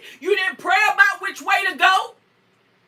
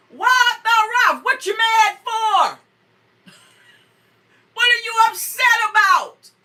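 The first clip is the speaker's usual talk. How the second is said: God questioning Cain; 4 semitones higher than usual. Acted.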